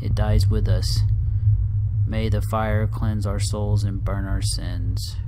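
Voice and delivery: earnest, lightly dramatic reading of a confession; solemn storytelling read; reading a letter aloud. Acted. Reads found game letter aloud.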